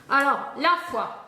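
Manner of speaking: announcing the word like a dictation; a schoolteacher naming the next word; teacher voice. Shown as a demonstration. Teaching spelling, announcing the word to write like a dictation. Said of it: "Comment tu écris la foi?".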